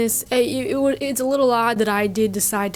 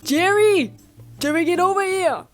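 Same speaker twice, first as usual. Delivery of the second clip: shouting over; 9 semitones higher than usual. Acted. Woman calls Jerry over from the hug, high shout. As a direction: holler for someone across the way. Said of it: "She shouted as she departed".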